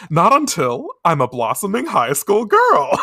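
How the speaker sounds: high, loud laughing declaration; heroic declaration. Retold or imitated. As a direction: shout it like a laughing hero. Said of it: "she says".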